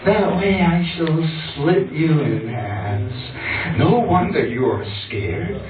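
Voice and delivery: theatrical threat to a lover; menacing revenge poem. Acted. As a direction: draw out the threats in dramatic spoken-word style.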